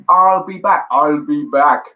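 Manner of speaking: lightly done Schwarzenegger catchphrase; a hint of the Terminator; Arnie impression. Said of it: "Good impression".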